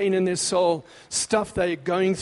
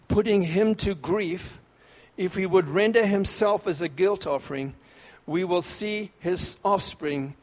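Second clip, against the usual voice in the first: solemn scripture reading. Acted. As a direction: weigh every word as you read. Reads verse ten aloud.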